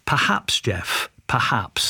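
a hint of a posh, clipped manager, slow at the end; lightly voiced posh manager, dry and slow; posh clipped Ramsey. Manager answering his striker's goodbye, lightly posh and clipped. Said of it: "spoke in a posh voice, clipped tones".

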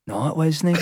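retold denial through a laugh; dismissive stranger, half laughing. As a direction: laugh as you doubt him. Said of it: "then he went".

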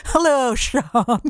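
slow, drawn-out Yorkshire greeting; slowly greeting a Yorkshire friend, Yorkshire accent. Retold or imitated. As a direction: lay on a light Yorkshire accent. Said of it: "I become a little bit Yorkshire".

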